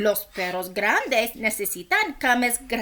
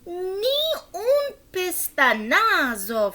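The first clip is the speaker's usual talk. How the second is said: laughing; 7 semitones higher, slower than usual. Real, not acted. Laughing while reading.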